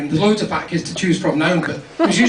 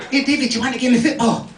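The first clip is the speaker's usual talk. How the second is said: higher-pitched playground lad calling out; a hint of an eager schoolboy, pitched up; lightly voiced wee boy; 5 semitones higher than usual. Wee boys asking classmate to play football, lightly voiced schoolboy. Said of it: "the wee boys would come up".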